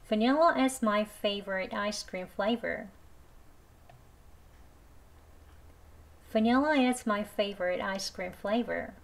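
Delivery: every word spoken very slowly, "Vanilla" with an i; slow model sentence. Shown as a demonstration. Teacher reading the ice cream sentence slowly, i version. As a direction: read it slow for learners. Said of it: "두 번 천천히 해볼게요".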